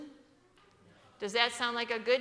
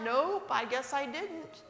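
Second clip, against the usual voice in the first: mock innocent father; 3 semitones higher, slower than usual. Father teasing wife, slow mock innocence. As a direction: drag it out innocently. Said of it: "father's reply".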